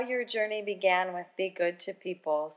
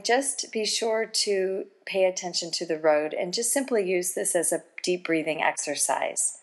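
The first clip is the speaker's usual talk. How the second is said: calm meditative tone. Acted. Host leads a golden pause meditation.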